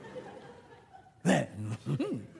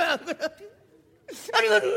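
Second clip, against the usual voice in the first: ordinary delivery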